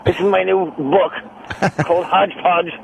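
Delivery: halting comic with odd pauses; Colin Quinn. Acted. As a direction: swallow the words, pausing between phrases. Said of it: "As Colin Quinn once said".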